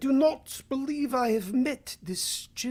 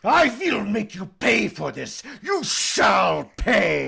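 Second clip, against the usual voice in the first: menacing threat; 4 dB louder than usual. Acted. Dracula threatens.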